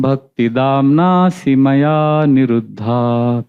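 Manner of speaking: slow, measured Sanskrit chant-like reading; verse recitation. Acted. Devotee recites the Chorashtakam verse, slow measured chant. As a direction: intone the prayer slowly, word by word.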